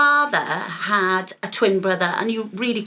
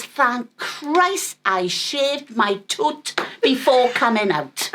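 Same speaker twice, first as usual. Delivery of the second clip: relieved thought; 3 semitones higher, much slower than usual. Retold or imitated. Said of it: "all I could think of was".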